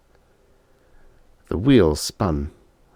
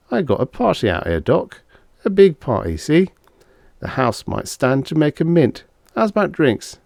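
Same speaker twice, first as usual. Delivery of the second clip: higher, louder tipsy pitch to the barman; getting loud; 8 semitones higher than usual. A narrator's reading. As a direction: talk him into drinks, a bit too loud. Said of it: "he was getting a little loud".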